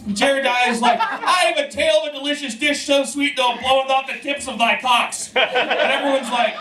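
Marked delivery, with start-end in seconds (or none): 1.0-5.3 mock olde proclamation.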